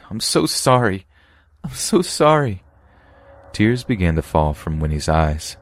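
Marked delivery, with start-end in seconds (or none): 0.1-1.1 high, tearful voice; sobbing apology. Acted. Winnie apologizing to her friend, tearful. Winnie confesses, tears falling. 1.6-2.6 higher, crying voice, breaking; more desperate sobbing apology. Acted. Winnie begging her friend's forgiveness, crying harder. Winnie confesses, tears falling.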